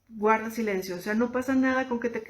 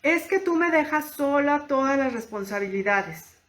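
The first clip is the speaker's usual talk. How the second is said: higher, reproachful accusing tone; non-assertive complaint; 5 semitones higher, 3 dB louder than usual. Shown as a demonstration. Wife reproaching her partner, accusing complaint. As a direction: blame the partner as you say it. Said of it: "número uno".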